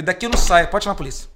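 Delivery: loud, stubborn refusal to leave; defiant shout. Retold or imitated. Standing up to the network boss, loud defiant shout. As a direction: plant your feet and shout it out.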